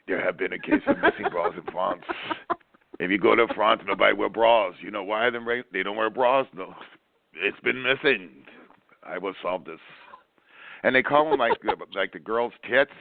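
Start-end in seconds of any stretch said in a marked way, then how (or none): 0.1-9.8 lightly voiced French accent; a mock grave French sleuth briefing the case; a hint of a French detective accent. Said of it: "a French detective".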